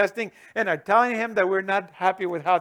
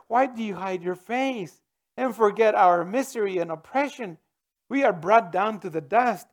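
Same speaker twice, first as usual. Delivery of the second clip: scripture reading. Acted. Reading the psalm's plea aloud.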